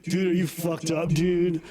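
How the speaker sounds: dumb party bro drawl; frat boy accent. Retold or imitated. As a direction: play a wasted frat bro. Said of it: "the white boy frat house accent".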